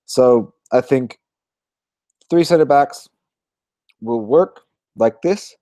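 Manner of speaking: slow words through a yawn. Real, not acted. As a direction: talk while stifling a yawn. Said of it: "Sorry for the".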